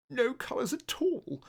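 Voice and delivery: high, haughty and sniffy; snooty sniff. Acted. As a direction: sniff it, looking down your nose. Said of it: "sniffed the dotty red".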